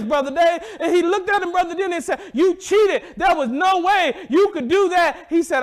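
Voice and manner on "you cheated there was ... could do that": furious accusation. Retold or imitated. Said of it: "he was furious".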